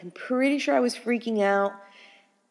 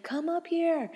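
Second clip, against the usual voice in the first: retold yell; 10 semitones higher, 4 dB quieter, slower than usual. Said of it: "yelling at him 'cause".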